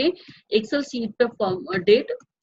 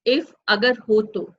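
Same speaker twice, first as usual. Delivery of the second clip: slow explanation; slower than usual. Shown as a demonstration. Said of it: "देखिए count मतलब गिनना".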